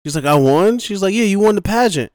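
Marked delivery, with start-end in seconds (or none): 0.2-0.8 mock stunned contestant. Contestant surprised. 1.1-2.1 high, loud hammed-up voices; mock gleeful pageant exchange. Pageant winner shrugging off dead boyfriend, high mock glee.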